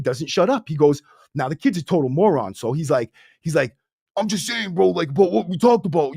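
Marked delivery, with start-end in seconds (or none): 4.2-6.2 put-on clueless kid blurting.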